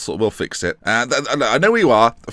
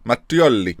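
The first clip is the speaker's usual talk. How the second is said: put-on restrained Italian accent; slower than usual. Gamer practising the chairman's name, light Italian accent. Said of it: "I'm a lot more Italian".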